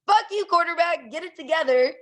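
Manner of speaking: high-pitched mock scolding of the quarterback; exasperated fan. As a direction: plead and curse from the stands. Acted fan berating own quarterback.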